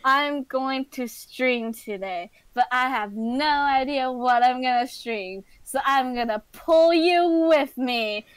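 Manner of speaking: lightly menacing villain retelling; mock menacing. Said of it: "you were all menacingly like".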